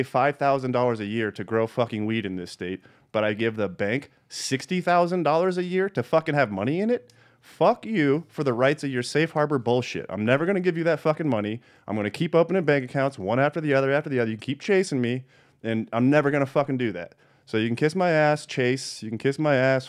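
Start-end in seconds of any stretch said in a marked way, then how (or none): 3.1-17.1 heated rant. Real, not acted. Podcaster raging at the bank fees, defiant and angry. 17.5-19.9 punchy, raised kiss-off; defiant telling-off. Real, not acted. Host telling Chase to kiss his ass, defiant.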